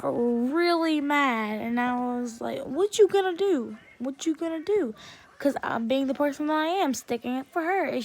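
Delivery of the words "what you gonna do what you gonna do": higher-pitched repeated dare; taunting challenge. Retold or imitated. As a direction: goad him with a retold challenge. Retold challenge to angry boy.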